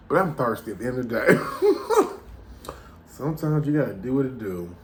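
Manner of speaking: chuckling through the words at the nasty tea; laughing while talking. Real, not acted. Vlogger laughing off the nasty tea, amused. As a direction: laugh it off as you speak.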